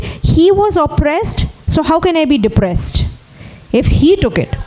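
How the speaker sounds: preacher lifting the congregation; rising preaching build. Acted.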